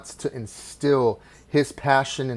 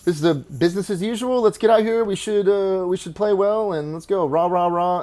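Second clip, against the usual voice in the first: mild hammed-up pep talk; 6 semitones higher than usual. Old coach to his team before a road game, lightly mimicked half-hearted pep talk. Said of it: "He would come on".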